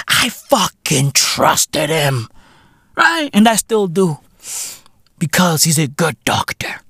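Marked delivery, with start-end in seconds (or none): 5.2-6.8 whispered aside. Acted. Whispered aside about doctor.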